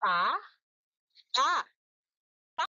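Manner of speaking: "pa" repeated in beats; syllable beats; clapped syllables. Shown as a demonstration. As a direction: count the beats. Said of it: "Ipalakpak nyo nga".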